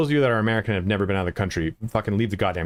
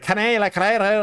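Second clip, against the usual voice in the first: high, garbled mock Scottish-Yorkshire blend; Scottish-Yorkshire accent; 11 semitones higher, 4 dB louder than usual. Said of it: "blend in with the Yorkie accent".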